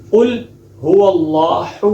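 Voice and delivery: قل هو اللہ with the first ha heavy, the last one light; slow demo of قل هو اللہ with uneven ha; wrong mixed ha. Shown as a demonstration. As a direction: mistaken uneven ha sounds. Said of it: "اس طریقے سے پڑھتے ہیں".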